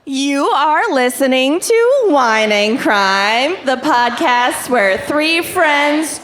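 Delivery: slow, drawn-out podcast intro; slow show intro. Acted. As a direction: recite the show opener slowly. Show intro recited in unison.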